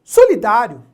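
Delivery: Solidário called out loud. Shown as a demonstration. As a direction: announce Solidário loudly. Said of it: "Bem simples essa dica".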